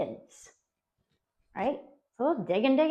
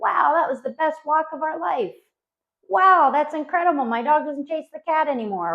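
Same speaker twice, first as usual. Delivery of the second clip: lightly acted delighted client, higher pitch; mock amazed; 5 semitones higher than usual. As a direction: gush like a thrilled dog owner. Acted delighted client texting the trainer.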